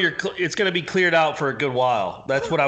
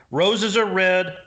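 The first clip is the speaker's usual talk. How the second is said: slow, measured verse; lightly hammed-up rhyme; mock poem recital; 2 semitones higher, much slower than usual. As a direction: recite a joke poem slowly. Improvised poem recited for the hosts.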